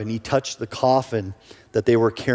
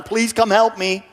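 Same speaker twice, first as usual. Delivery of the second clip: pleading widow; 8 semitones higher than usual. Acted.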